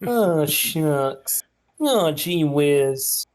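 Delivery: mock-polite regret. Politely apologising to the murdered opponent, hammed-up mock regret. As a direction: play the oh-so-sorry polite killer.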